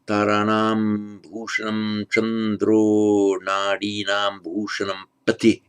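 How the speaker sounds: measured recitation with sustained syllables; verse recitation with sandhi. Shown as a demonstration. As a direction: intone the verse on a steady note, drawing out the long vowels. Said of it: "So with the sandhi, this verse will be".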